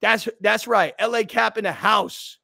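high, loud hype-man shouting; yelling at the crowd. Retold or imitated. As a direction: rile up the whole section, loud and high. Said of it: "I'm yelling at him".

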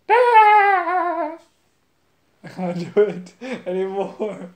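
put-on high, slow very old man voice with a laugh; grandpa voice. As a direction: creak it out like a frail old grandpa. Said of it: "I used to be able to do Grandpa voice".

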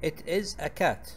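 very slow with stress on is; slow model sentence. Shown as a demonstration. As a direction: lay out each word for learners. (نطق بطيء مع التشديد على is)

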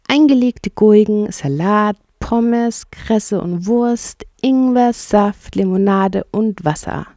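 every item lifted and drawn out, from "Eingelegte Gurken" to "Wasser"; relished list. Acted. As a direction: savour each food in turn, "Salat", "Pommes", "Kresse". Rat lists the picnic provisions. (genüssliche Aufzählung, "Gurken" und "Ingwer" betont)

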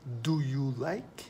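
whispered Do you like, slow. Shown as a demonstration. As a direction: whisper the question slowly.

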